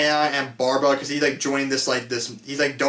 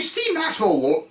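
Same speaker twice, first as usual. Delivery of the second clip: voice crack; 5 semitones higher, slower than usual. Real, not acted. Reviewer trips while naming the character, real voice crack. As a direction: voice cracking mid-name. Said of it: "oh, voice crack there".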